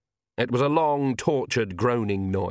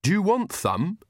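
eager, higher-pitched servant's offer; earnest; 8 semitones higher than usual. A narrator's reading. Servant offers spare legs, earnest and eager. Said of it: "said Igor earnestly".

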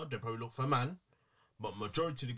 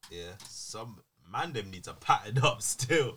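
slow, weighty warning; emphatic slow; 4 dB louder, slower than usual. Real, not acted. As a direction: lay it down slowly and firmly. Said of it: "I have to say this".

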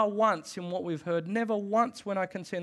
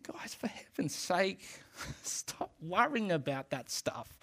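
gentle whisper; 2 semitones higher, 5 dB quieter, slower than usual. Retold or imitated. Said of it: "He never said it with that tone".

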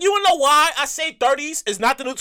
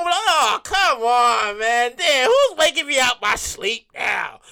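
groggy annoyed; 4 semitones lower, much slower than usual. Acted. Phone wakes him from nap.

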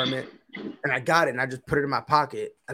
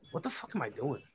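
muted self-doubt; 13 dB quieter than usual. Retold or imitated. Retelling doubting himself alone in car.

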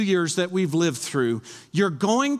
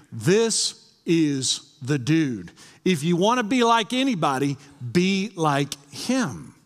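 crowd acclaim. Acted. Crowd declaring about Jesus.

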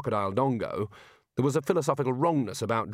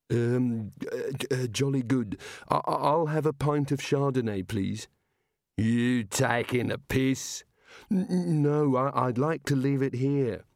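frightened stammer; 2 semitones higher, slower than usual. Acted.

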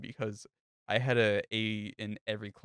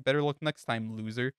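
mocking taunt; 2 semitones higher, 3 dB louder than usual. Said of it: "basically is what she said".

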